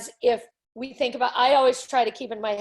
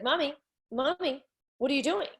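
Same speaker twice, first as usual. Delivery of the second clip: higher, lightly voiced puzzled child; child calling mommy; 4 semitones higher than usual. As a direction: imitate a kid trying to rouse mommy. Imagined child calling mother asleep.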